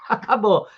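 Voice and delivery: teacher repeating the point; stressed acabou. Shown as a demonstration.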